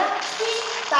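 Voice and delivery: slow teaching demo of "कीता" with a long ता; drawn-out demo. Shown as a demonstration. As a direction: stretch "कीता" slowly, short की then long ता. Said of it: "आवाज कैसी आ रही?".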